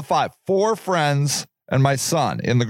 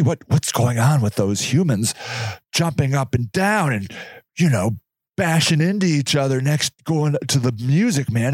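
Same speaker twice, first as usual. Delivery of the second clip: strange curiosity; 4 semitones lower than usual. Retold or imitated. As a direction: wonder aloud at strange human behaviour, mildly. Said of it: "strange curiosity".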